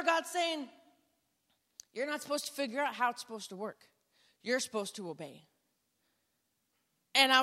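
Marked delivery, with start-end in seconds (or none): 1.9-5.5 a hint of a lower, much softer voice of God; God's voice. God answering the doubting speaker, softly and lower. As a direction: speak it as a calm inner voice, low and quiet.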